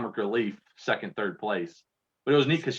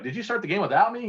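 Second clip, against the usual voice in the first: quoting mom; 11 semitones higher than usual. Retold or imitated. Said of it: "And she's like".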